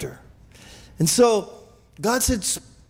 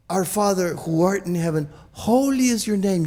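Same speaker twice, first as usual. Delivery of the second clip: reverent prayer. Shown as a demonstration. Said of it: "And so when you say".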